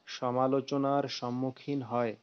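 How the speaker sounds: slow repeat for the writer; dictating. Shown as a demonstration. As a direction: slowly repeat the phrase for the pupil. (ধীরে ধীরে আবার বলা)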